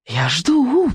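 high, wailing witch; howled. A narrator's reading. Witch waits for the boy's answer, howling. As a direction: let it rise into a witchy howl. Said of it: "провыла ведьма".

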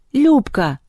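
high-pitched cry of a name; yelling. A narrator's reading. Мишка calls to Люба, yelling. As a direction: shout her name out suddenly. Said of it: "заорал Мишка".

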